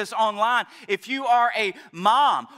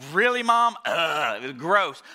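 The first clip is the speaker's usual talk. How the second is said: put-on disgusted teenager; 3 semitones lower, slower than usual. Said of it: "they're just like".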